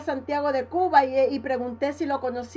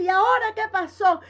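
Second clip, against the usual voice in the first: higher, amazed repeat; astonished nurse; 5 semitones higher than usual. Retold or imitated. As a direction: she cannot believe her eyes. (enfermera atónita, más aguda)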